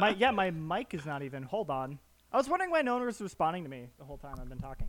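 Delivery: muffled and faint mic; like talking from inside a box. Real, not acted. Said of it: "You sound underwater".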